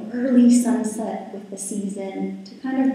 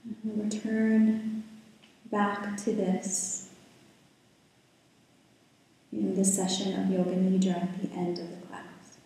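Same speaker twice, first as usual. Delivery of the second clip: calm, unhurried guiding voice with long pauses; guided meditation; 3 dB quieter than usual. Real, not acted. Yoga teacher settling the class into breath and body, guided meditation. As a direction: ease listeners into stillness, leaving space between phrases.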